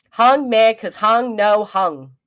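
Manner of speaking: slow, loud, dumb caveman talk; caveman mock voice. Mocking a man on stream in slow loud caveman talk. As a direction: stomp through it like an angry caveman.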